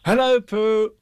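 loud, high happy greeting call; gleeful high holler; joyful shout. A narrator's reading. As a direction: call out delightedly to a friend. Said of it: "he shouted joyfully".

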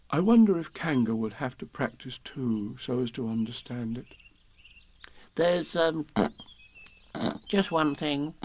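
nervously raising a point; small animal voice. A narrator's reading. Pooh then Piglet speaking.

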